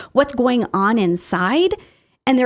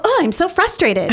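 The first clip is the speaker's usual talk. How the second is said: higher, laughing through a mock complaint; mock frustrated sigh, laughing; 8 semitones higher than usual. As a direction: play your own frustrated self, giggling. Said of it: "You go".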